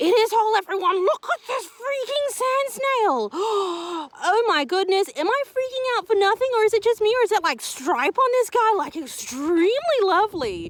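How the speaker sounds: giddy, excited gushing with drawn-out oh. Spotting a beautiful sand snail, telling everyone to look: excited yelling. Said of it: "I'm sorry, I think I'm yelling".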